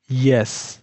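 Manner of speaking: ইয়েস said with a clear y glide at the start; teacher demonstrating ইয়েস; y sound demo. Shown as a demonstration. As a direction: model ইয়েস with the tongue on the palate. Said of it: "সেখান থেকে ইয়েস উচ্চারণ হয়".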